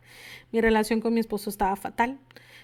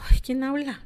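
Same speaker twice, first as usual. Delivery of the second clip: whispered, higher, a frightened hush; startled whisper; 4 semitones higher, 4 dB louder than usual. Retold or imitated. She whispers back to the mysterious voice, startled whisper. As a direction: breathe it out, unnerved.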